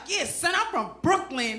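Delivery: tough talk that comes out soft; half-hearted Brooklyn swagger; trying hard, sounding soft. Acted. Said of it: "I sound soft".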